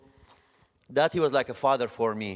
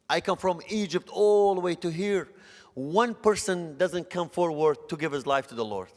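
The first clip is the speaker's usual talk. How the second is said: pleading cry to God; 6 semitones higher than usual. Retold or imitated. A disappointed preacher asks God why, pitched high and pleading. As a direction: cry out to God, hurt and let down. Retold anguished prayer after crying.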